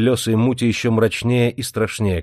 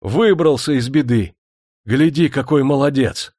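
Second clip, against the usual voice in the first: raised-pitch admiring cry; relieved exclamation; 5 semitones higher, 3 dB louder than usual. A narrator's reading. Crowd seeing the master safe, relieved exclamation. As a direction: exclaim with relief at a narrow escape. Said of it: "Толпа облегчённо вздохнула".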